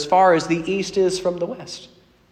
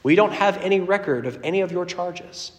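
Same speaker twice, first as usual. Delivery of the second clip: gentle clerk; 4 semitones higher, 5 dB quieter than usual. Retold or imitated. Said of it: "the man just smiles at you and says".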